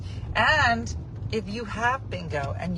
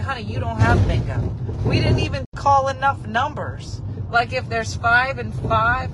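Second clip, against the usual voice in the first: louder, firm bingo-hall scolding; stern caller; 3 semitones higher, 4 dB louder than usual. Retold or imitated. The bingo host scolding a woman who called too early, firm and loud. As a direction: set her straight, no nonsense. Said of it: "who is no joke".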